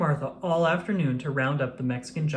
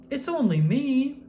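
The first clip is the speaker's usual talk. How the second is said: shouting; 10 semitones higher, 3 dB louder than usual. A narrator's reading. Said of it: "shouted Martha".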